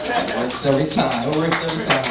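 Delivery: low ad slogan, lifting on the repeat; smooth pitchman selling the tagline; Billy Dee Williams. Acted. Comic closing a mock beer commercial, low spokesman impression. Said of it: "This is my impersonation of Billy Dee Williams".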